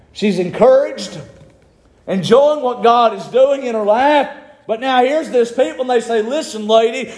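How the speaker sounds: full-force preaching. Acted.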